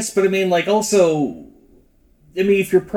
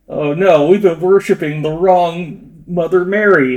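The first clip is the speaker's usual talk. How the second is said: louder, slow mock dismay; mock horror; 2 semitones higher, 5 dB louder than usual. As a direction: gasp in fake horror at the mistake. Mock horrified worshipper.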